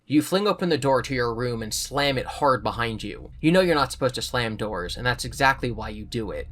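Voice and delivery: even storybook reading voice; steady read-aloud narration; story narration. A narrator's reading. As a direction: read the book to listeners. Reading a choose-your-own story aloud.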